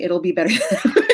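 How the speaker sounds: laughs mid-line, amused; laughing. Real, not acted. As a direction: chuckle through the catchphrase. Laughing through own tagline.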